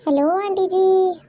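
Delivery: slow, drawn-out call into the phone. Acted. Niece calling to the silent aunt on the phone, slow and drawn out. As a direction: stretch out hello aunty जी as if the line is failing. Calling out over a bad line.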